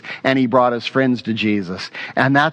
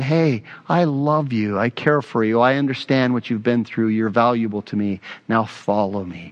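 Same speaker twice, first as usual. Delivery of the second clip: tender call; 3 semitones lower than usual. Acted. Jesus calling the tax collector to follow him, tender and fading. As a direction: reassure a broken man, letting the voice sink.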